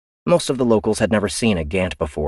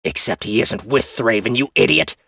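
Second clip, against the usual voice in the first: higher, louder hostile reply; defiant crewman; 8 semitones higher, 4 dB louder than usual. Acted. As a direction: challenge her openly. Otero voice.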